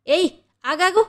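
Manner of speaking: flustered. A narrator's reading. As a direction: blurt it out in a panic. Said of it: "అని కంగారుగా". (కంగారుగా, గాభరాగా)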